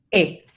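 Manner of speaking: "E" shaded slightly toward I; low isolated Spanish "E", tinged with I; E con algo de I. Shown as a demonstration. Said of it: "tiene un poquitico de I". ("E" con un poquitico de I)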